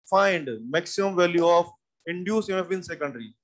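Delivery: very slow, even dictation; slow reading. Shown as a demonstration. Teacher dictating the last part of the question, slowly. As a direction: read the question out slowly for notes. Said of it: "सवाल की पूरी language सुनिए".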